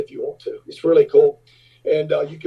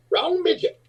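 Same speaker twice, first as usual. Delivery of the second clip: high, imitated panicky little man; mock panic, pitched way up; panicked; 12 semitones higher than usual. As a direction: blurt it in a small high voice. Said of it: "panic was over that little fella's face".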